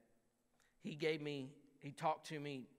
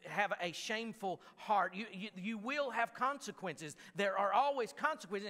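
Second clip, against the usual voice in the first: a hint of a stern God, louder; God speaking; 4 semitones higher, 4 dB louder than usual. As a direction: lay down God's rules firmly. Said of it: "And he says".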